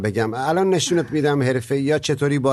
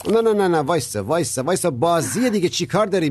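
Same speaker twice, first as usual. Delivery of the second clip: alarmed shout; 6 semitones higher than usual. Acted. Father stops a family fight.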